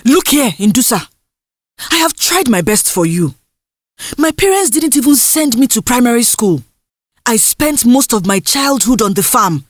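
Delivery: lightly voiced mother, firm and weary; a hint of a tired mother saying no. Mother lectures daughter.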